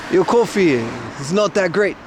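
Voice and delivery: slow mock Aussie complaint; imitating an Australian. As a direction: grumble it slowly in a put-on Australian accent. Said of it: "Every Australian I've ever met".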